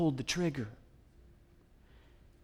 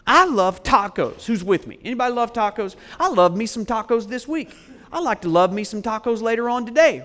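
louder, higher, fast crowd-warming banter; playful hype; 4 semitones higher, 6 dB louder than usual. Acted. Preacher rousing the congregation over tacos, playful and loud. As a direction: whip up the room about tacos.

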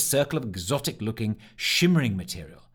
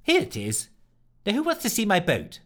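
unenthusiastic; 8 semitones higher than usual. Acted. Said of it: "without much enthusiasm announced".

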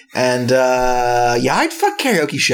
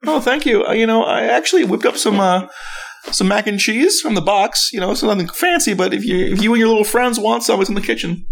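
mock Darth Vader reply; 5 semitones higher than usual.

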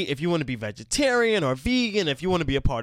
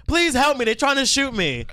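high frantic plea; panicked caller; 10 semitones higher, 4 dB louder than usual. Retold or imitated. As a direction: beg for help in a panic. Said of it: "they'd be like".

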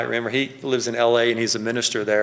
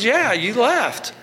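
imitating the owner; 11 semitones higher, much slower than usual. Gas station owner accuses pastor.

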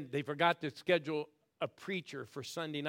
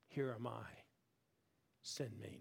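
sincere prayer; 3 semitones lower, 8 dB quieter than usual. Shown as a demonstration. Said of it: "here's the phrase I want you to learn".

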